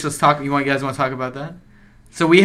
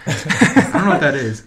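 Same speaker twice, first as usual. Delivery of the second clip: laughing; 3 semitones higher, slower than usual. Real, not acted. Laughing, feigning ignorance.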